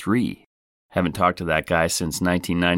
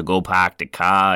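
mock Boston accent. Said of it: "I was just messing around with it".

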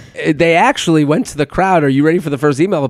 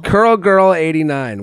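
host's announcement; 3 semitones higher than usual. Acted. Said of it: "you start with the Curl Girl".

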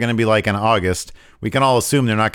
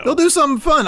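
much higher, eager burst; light up at the idea; excited; faster than usual. Real, not acted. Cohost excited about a beach show, high eager voice.

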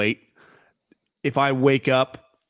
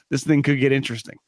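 laughing; faster than usual. Real, not acted. Amused aside, laugh heard.

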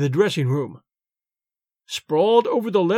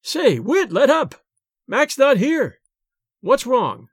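higher-pitched pained protest; pained cry; 6 semitones higher, slower than usual. A narrator's reading. Narrator caught in the Rube's grip, mildly pained protest. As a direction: plead with him to let go, voice raised in pitch. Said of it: "I cried out with pain".

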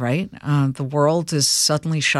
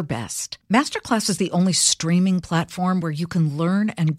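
ad read; 3 semitones higher than usual. Acted. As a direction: sell it like a podcast host ad. Host reads sponsor ad.

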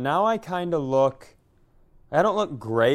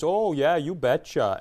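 light stereotyped Minnesota lilt; Minnesota accent; 3 semitones higher than usual. Retold or imitated. Comparing stereotypes with co-host, mild Minnesota accent. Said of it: "everybody thinks everybody in Minnesota".

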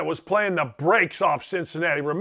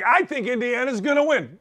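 eyes-closed doubtful take; 6 semitones higher than usual. Shown as a demonstration. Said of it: "It wasn't like".

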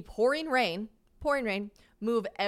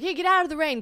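called out higher and louder; calling out; 9 semitones higher, 9 dB louder, faster than usual. Retold or imitated. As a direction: wave her in from the rain. Bert calls her in from rain.

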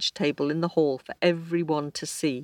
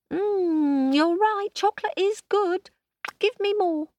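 very high, pleased croc voice; a greedy croc savouring chocolate; 3 dB louder than usual. Acted.

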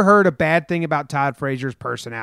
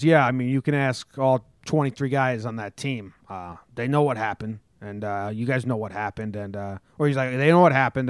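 put-on Jersey accent; 2 semitones lower than usual. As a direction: lean lightly into a Jersey accent. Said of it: "Jersey voice".

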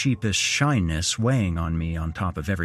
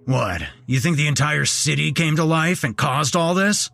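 mild skeptical grumble; a doubting man grumbling at Steve; grumbled; 8 semitones higher, 5 dB louder than usual. Acted. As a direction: scoff at the idea. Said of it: "grumbled Sam".

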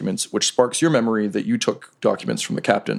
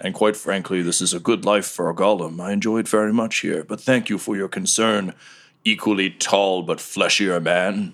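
a cheerful golem who loves his bar; lightly voiced party golem; golem bartender.

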